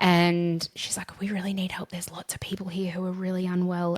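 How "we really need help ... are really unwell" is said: put-on whisper. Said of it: "she's whispering down the phone going".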